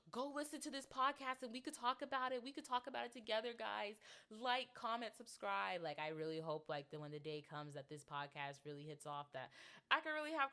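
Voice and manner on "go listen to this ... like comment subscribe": mock commenter plug. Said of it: "I wanted to be in the comments like".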